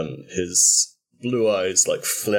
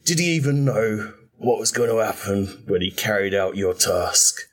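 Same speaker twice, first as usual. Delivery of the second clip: cold fury; 3 semitones higher than usual. Acted. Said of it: "all trace of his, like, happy-go-lucky, upper-class British accent have gone".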